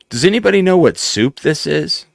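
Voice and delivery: high, projected bewildered question; quoted loud question. Retold or imitated. Retelling an actor asking the room about soup, high and loud.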